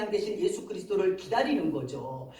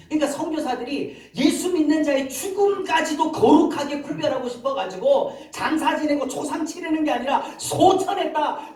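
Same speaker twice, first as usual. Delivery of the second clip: higher, louder impassioned explanation; preaching at full force; 6 semitones higher, 5 dB louder than usual. Real, not acted. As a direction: drive the point home with raised voice. (힘주어 높인 설교조)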